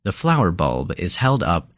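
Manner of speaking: unhurried storytelling with pauses between phrases; guided imagery narration. Acted. Narrator leading a listener along a mountain path, guided imagery narration. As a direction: guide the listener step by step, letting each image settle.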